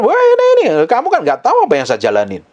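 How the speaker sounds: high hammed-up wow; mock amazed exclaim. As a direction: gush like an impressed onlooker. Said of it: "orang pikir".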